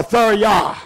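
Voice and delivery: thurya said as THOOR-yah, stress on the first syllable; alternate Greek pronunciation. Shown as a demonstration. Preacher offering a second Greek pronunciation, thurya. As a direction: give thurya as the other way to say it. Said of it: "it's pronounced as thura".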